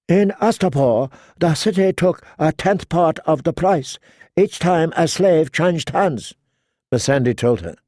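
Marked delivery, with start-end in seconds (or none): 0.1-6.3 lightly voiced girl adviser, a touch higher; a hint of a young counsellor's voice, informing the queen; girl adviser, reporting.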